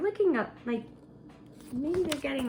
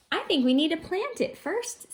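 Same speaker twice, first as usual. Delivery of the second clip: Splat's voice; 7 semitones higher than usual. Acted. Splat's line voiced higher.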